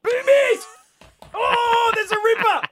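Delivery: thrilled squeal at the guess; delighted shout. Real, not acted. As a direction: crow with delight at the rude word. Host repeats caller's cheeky guess.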